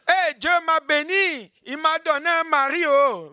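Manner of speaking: high, delighted boasting of a blessing; woman bragging that God gave her a husband; gushing believer. Acted. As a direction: show off happily, voice up. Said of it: "Les gens aiment les bénédictions".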